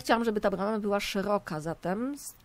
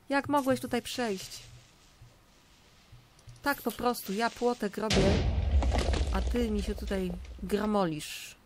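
scolding; 3 semitones higher, 4 dB louder than usual. Real, not acted. Scolding a mob that got through.

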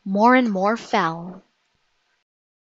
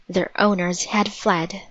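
ordinary delivery

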